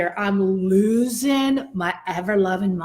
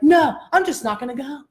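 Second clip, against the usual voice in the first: higher-pitched mock huff; aggravated refusal; 4 semitones higher, faster than usual. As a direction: dig in, retelling a stubborn refusal. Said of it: "super mad, aggravated state".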